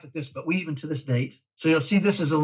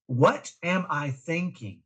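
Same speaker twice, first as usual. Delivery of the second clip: slowed-down question, each word placed; slow deliberate mantra; 3 dB quieter, slower than usual. Shown as a demonstration. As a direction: say the mantra slowly and clearly. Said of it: "something we called wait".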